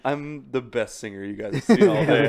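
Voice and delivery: slow, laughing cocky contestant; mock Idol contestant. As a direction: play an overconfident singer, laughing. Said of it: "that motherfucker on American Idol".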